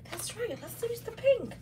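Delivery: high delighted self-agreement; excited agreement. Retold or imitated. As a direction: pitch way up, giddy. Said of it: "I was like".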